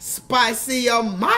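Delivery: a hint of the drive-thru lady, slightly slow; light mock of the Louisiana drive-thru question; lighter imitation. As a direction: toss off a quick echo of the cashier. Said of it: "Somebody put that in the chat".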